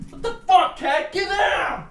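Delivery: high-pitched exasperated yell; real yell. Real, not acted. Owner ordering the cat to get down, high startled yell. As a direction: shout sharply at a misbehaving pet.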